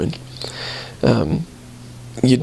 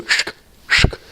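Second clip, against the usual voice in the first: movie door-slot noise. Retold or imitated. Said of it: "in all the movies, they go".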